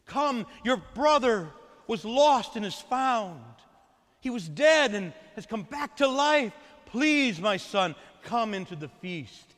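a father's earnest plea, rising and falling; pleading father. Acted. Father begging his angry son to join the feast, pleading. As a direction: beg the son to come in, gently then urgently. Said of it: "came out and pleaded with him".

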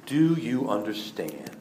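slow, soft, low question; slow quiet question. Acted. Jesus asks his disciples after washing their feet, slow and quiet. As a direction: ask it gently and slowly, letting it sink in. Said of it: "and He asked them".

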